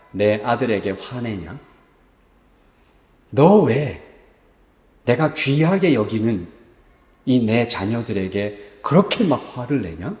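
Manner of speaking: gentle reproach. Acted. God rebuking Moses for his anger at his children, gentle low reproach. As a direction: chide tenderly like a hurt parent. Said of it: "하나님은 모세에게 이렇게 얘기하시는 겁니다".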